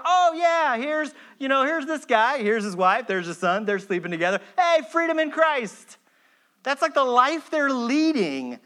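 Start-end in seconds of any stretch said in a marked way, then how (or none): 0.0-6.0 mock casual church members. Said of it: "they're like".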